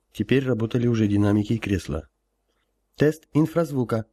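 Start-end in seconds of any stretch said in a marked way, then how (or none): 3.0-4.1 lightly voiced girl giving an order; brisk command. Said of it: "скомандовала Маша".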